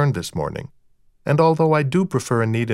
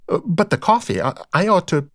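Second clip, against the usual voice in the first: high, hesitant woman's voice; blushing, flustered wife; 7 semitones higher than usual. A narrator's reading. Rita frets to her guest about coffee, flustered. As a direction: falter shyly over a duty. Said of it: "she was actually blushing".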